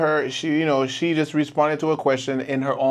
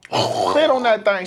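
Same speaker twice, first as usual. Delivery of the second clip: raised, slow drawling catchphrase; imitated man's talk; 8 semitones higher, slower than usual. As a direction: put it on high and drawn out. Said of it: "like a nigga talking".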